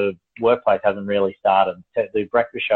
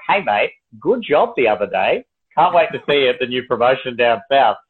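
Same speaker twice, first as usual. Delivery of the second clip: mock-chummy boss, pitched up a bit; mock congratulations; 3 semitones higher than usual. Imagined boss congratulating an employee in a meeting, mock-chummy. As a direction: pretend to hand out good news, lilting.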